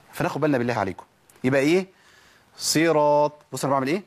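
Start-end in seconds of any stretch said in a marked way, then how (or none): 2.6-3.3 "صراط" with a full emphatic s; correct heavy Sad. Shown as a demonstration. Teacher showing how it is done, emphatic Sad. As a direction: keep the ص of "صراط" heavy despite its i vowel. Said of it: "بحقق الإطباق".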